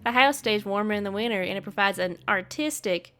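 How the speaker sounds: put-on lightly done country accent. Neighbor explaining his black house, country accent. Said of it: "I gave him a country accent".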